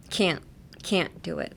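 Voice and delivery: CAN'T stopped briefly before DO IT; semi-pause. Shown as a demonstration. Teacher demonstrating the little pause, brief stop after can't. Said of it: "like, pause".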